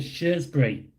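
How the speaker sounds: Shrewsbury said as "SHURZ-bree"; Shrewsbury with no "roo", just "shurz"; own pronunciation. Shown as a demonstration. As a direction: say Shrewsbury with "shurz" for the first syllable. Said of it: "Why did I pronounce it".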